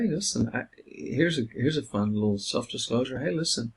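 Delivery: lightly confiding counsellor voice; friendly self-disclosure. Shown as a demonstration. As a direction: open up casually to the client.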